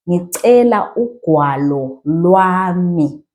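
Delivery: "Ngicela ugwalo lwami" drawn out slowly; beginner's slow, careful read; slow syllable by syllable. Shown as a demonstration. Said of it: "say every syllable".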